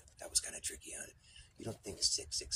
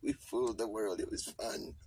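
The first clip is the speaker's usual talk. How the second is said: put-on high, louder doddering old man reminiscing; senile old astronaut; 5 semitones higher, 4 dB louder than usual. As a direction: ramble like a grandpa spilling secrets. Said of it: "It's gonna be all like".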